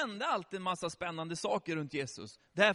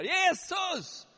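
high, drawn-out shout; calling out; 11 semitones higher, 4 dB louder than usual. Acted. Blind beggar calling to passing Jesus, high desperate shout. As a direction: call after someone passing by. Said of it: "Så han ropar på där".

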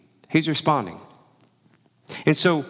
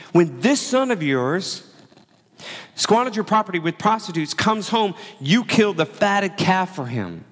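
bitter accusation; 5 semitones higher than usual. Acted. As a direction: spit out "this son of yours" with contempt. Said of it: "He's throwing a tantrum".

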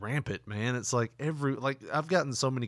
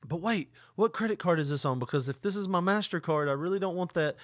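higher, fussy fake worry; mock confused customer; 6 semitones higher than usual. Prank caller plays dumb about card, higher fussy voice.

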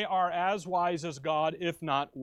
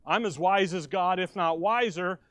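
boastful creature; 5 dB louder than usual. Retold or imitated. Creatures boasting against God.

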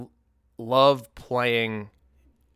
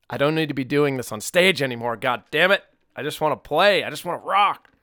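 louder, fed-up playful rant; exasperated outburst; 4 semitones higher, 5 dB louder than usual. Real, not acted. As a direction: burst out wanting to rock. Joking rant about wanting to play.

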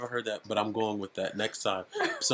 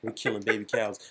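ordinary talk, nothing marked

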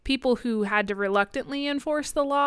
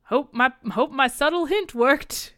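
imitating a knowing official, a touch higher, louder and slower; sly mock hint; 5 semitones higher, 5 dB louder than usual. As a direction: play Plutarch with a wink, drawn out. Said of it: "And he's like".

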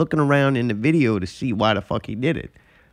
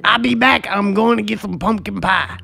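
Mike Tyson lisp; 5 semitones higher than usual. Acted. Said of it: "Trying to add the lisp".

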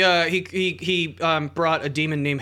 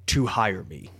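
put-on Russian accent. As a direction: read it like a Russian mystic. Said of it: "Your Russian accent is immaculate".

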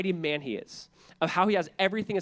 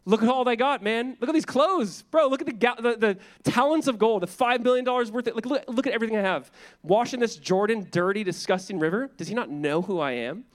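boastful; 5 semitones higher than usual. Retold or imitated. Proud Naaman boasting of wealth.

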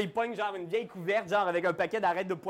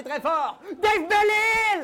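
laughing; 12 semitones higher, 5 dB louder, much slower than usual. Real, not acted. Host introducing players, laughing.

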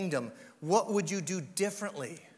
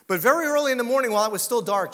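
louder, quicker storytelling; building narration; 8 dB louder, faster than usual. A narrator's reading. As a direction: surge into the story. Narrating dramatic scripture moment.

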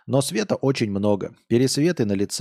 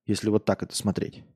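usual speaking voice

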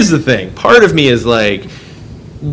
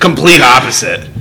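laughing. Real, not acted. Laughing at own mix-up.

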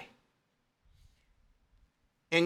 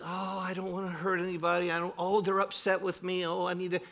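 softer, fretful mock whine; mock a timid people-pleaser afraid of upsetting anyone; timid worrier; 5 dB quieter than usual. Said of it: "as opposed to just".

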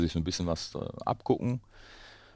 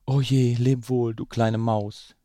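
higher, louder snake voice, slow at the end; snake calling farewell; 6 semitones higher, 5 dB louder, slower than usual. Acted. Snake fleeing the Gruffalo, calling farewell to the mouse. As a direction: voice the frightened snake bidding farewell. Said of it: "rief sie".

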